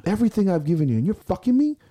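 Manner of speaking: high, loud outraged shout; betrayed yell. Retold or imitated. Lifter yelling at his sport like a cheating girlfriend, outraged. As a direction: scream at the betrayal. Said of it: "I'm yelling like I'm talking to a girlfriend".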